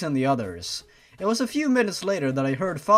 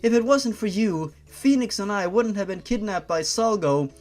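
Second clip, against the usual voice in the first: crying scream; 5 semitones higher than usual. Acted. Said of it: "I started crying as I screamed".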